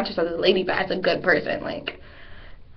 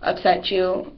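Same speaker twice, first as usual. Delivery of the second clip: polite apology. Retold or imitated. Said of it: "keep walking and be like".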